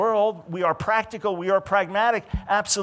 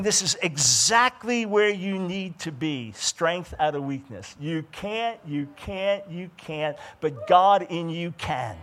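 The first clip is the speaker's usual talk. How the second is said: reassuring inner voice; slower than usual. Retold or imitated. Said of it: "and saying".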